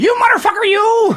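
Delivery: shrill shouted outburst, pitched way up. Doing one line from Casino as an impression: Joe Pesci impression. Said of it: "my Joe Pesci impression that I do".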